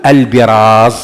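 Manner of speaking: "البراز" said slowly as al-biraaz; "البراز" with bi, drawn out to show it; kasra on the ba. Shown as a demonstration. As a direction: say "البراز" with a short i after the b. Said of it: "بكسر الباء".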